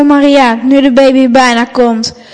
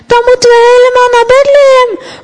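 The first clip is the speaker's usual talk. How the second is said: much higher, fast alarmed call; 11 semitones higher, faster than usual. Acted. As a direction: cry out in shock, pitch way up. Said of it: "roept Jozef".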